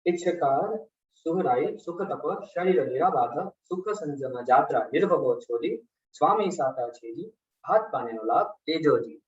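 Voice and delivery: measured, phrase-by-phrase devotional recitation; leading a congregation through a prayer; sutra recitation. Acted.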